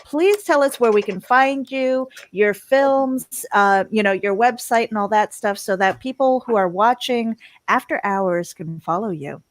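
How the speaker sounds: slow, dramatic whiskey rasp. Acted. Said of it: "it's whiskey voice right now".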